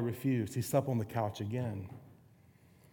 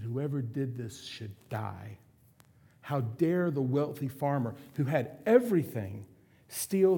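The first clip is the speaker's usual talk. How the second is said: angry outburst. Acted. David judging the rich farmer, mildly angry. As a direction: let outrage rise at the injustice. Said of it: "And David became angry".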